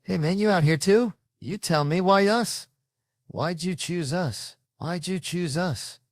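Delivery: comic bank guy pestering the driver, high and nagging; mimicking bank attendant. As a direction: whine it up high like a pestering clerk. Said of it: "He did it again".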